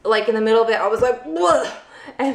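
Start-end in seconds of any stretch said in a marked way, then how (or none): 1.2-1.7 weird breathless noise. Real, not acted. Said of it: "made, like, a weird noise".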